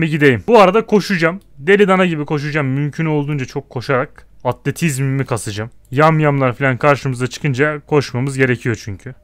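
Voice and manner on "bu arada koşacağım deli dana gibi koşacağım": excited. Real, not acted. Hyped about running everywhere.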